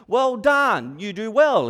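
loud, high mock praise; mock the congratulations; mild sarcasm. James mocking the believer with sarcastic praise. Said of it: "he says".

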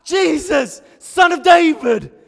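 full, high shout; very loud, desperate acted cry. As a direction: scream it to be heard over a crowd. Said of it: "so he screams louder".

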